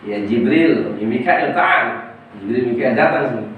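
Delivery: lordly summons to the angel; commanding call. Acted. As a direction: call the angel over with authority. God summons Jibril and Mikael.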